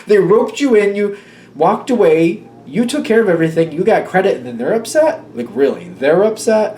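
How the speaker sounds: exasperated, punchy recap of a grievance; annoyed disbelief. Real, not acted. Reader siding with the one left to take over, exasperated. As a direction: lay out the injustice with rising incredulity. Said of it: "this is really annoying".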